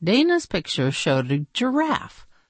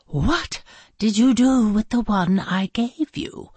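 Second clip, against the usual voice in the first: demanding; 5 semitones higher, 3 dB louder than usual. Acted. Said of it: "she demanded".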